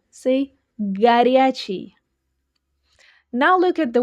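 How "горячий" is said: горячий drawn out on the stressed second syllable; горячий, leaning on the middle syllable. Shown as a demonstration. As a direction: say горячий slowly as ga-RYA-chiy. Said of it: "pay attention to the stress".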